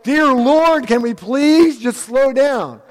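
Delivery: exasperated plea. Retold or imitated. Congregation tired of change pleads with God, mock exasperated. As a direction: beg the Lord to slow down, half in jest. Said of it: "some of us at this point are like".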